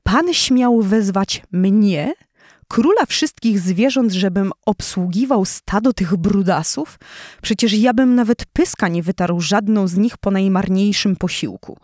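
contemptuous lion. Acted. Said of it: "pełen złości i pogardy".

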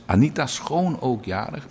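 Schoon lifted high and leaned on; stress on Schoon. Shown as a demonstration. Radio host greeting Anita, stressing Schoon. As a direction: give the name Schoon a clear push up. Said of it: "met nadruk op schoon".

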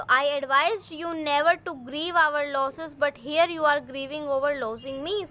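put-on slow, clear English read-aloud for young pupils; teacher reading the story aloud slowly; slow storybook reading. A narrator's reading. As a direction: read each word out slowly for the class.

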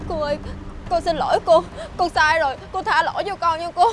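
tearful, rising plea for forgiveness; frantic pleading. Acted. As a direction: beg desperately, close to crying. Caught mistress begging wife and friend.

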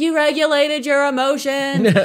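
ecstatic praise. Retold or imitated. Mom cheering son who finally calmed down, ecstatic high shout. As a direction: burst out cheering like a thrilled parent. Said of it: "And I lost my mind".

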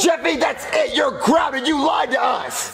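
angry shout. Acted. Father angrily grounding Jeffy.

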